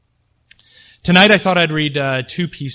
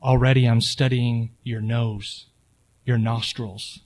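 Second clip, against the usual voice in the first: story reading; 4 dB louder than usual. A narrator's reading. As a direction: read it like a calm threat, letting pauses hang. Menacing first-person story reading.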